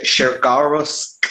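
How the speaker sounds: Shergarus said slowly, testing each syllable; unsure pronunciation. Shown as a demonstration. GM to players, slowly sounding out Shergarus. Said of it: "I can never pronounce this".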